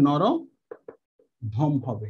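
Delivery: very slow, each sound stretched; teacher drawing out the joined word; drawn-out answer. Shown as a demonstration. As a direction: spell the answer out slowly for students. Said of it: "তাহলে সেটা আমরা কি হবে?".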